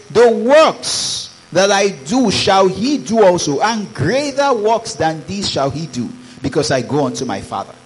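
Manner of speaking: proclaimed. Acted. Preacher proclaiming scripture loudly.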